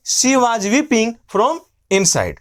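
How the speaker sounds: slow, deliberate sentence; slow dictation. Shown as a demonstration. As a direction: read it out slowly for learners. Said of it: "क्या बोलेंगे?". (धीरे-धीरे बोला गया वाक्य)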